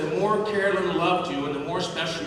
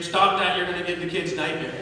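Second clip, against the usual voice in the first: mild mock scream; 2 semitones higher than usual. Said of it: "she would scream".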